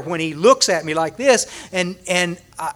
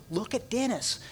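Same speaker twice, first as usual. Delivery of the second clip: much softer, near-whispered aside; hushed aside; 4 semitones higher, 12 dB quieter than usual. Retold or imitated. Friend Matt pointing out Dennis, hushed aside. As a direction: nudge a friend quietly. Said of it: "He said".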